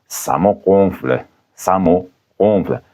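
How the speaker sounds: slowed teaching demo. Shown as a demonstration. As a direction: say it slowly for the class. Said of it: "par exemple".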